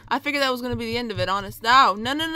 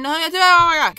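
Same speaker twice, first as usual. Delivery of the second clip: rising mock exasperation; 5 semitones higher, 10 dB louder, much faster than usual. Game wind blowing harder.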